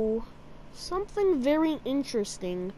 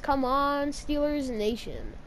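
odd cheer; 3 semitones higher, slower than usual. Real, not acted. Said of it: "why'd I say it like that?".

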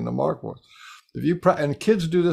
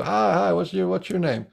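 sock puppet voice; 4 semitones higher than usual. Shown as a demonstration. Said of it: "you can do it with sock puppets".

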